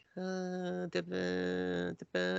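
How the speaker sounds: half-asleep, lazy, very slow and very high babble. Retelling a sleepy character's speech: imitating a lazy sleepy voice. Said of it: "that voice style where they're very lazy and sleepy".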